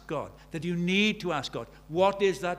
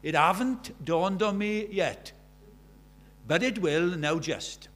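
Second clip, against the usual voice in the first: put-on slow, louder Merthyr accent; broad Welsh Merthyr accent, slow and proud; 5 dB louder, slower than usual. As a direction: quote the boxer slowly in a broad Merthyr accent. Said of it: "in his lovely Merthyr accent".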